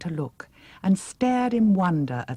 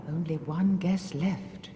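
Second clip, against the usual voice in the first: fearful murmur; 2 semitones higher, 4 dB quieter than usual. Acted. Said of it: "she murmured fearfully".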